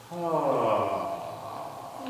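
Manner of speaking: low rattling vocal fry on ah. Shown as a demonstration. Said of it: "Everybody go".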